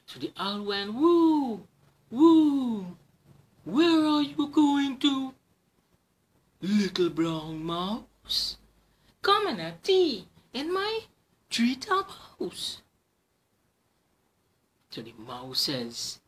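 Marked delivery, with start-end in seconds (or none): 0.9-12.8 high, loud hooting owl voice. Acted. Owl invites the mouse to tea. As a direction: hoot it like a grand owl.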